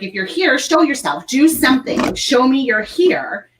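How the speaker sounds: mock calling out to a ghost. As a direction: challenge the spirit to appear. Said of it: "I was like".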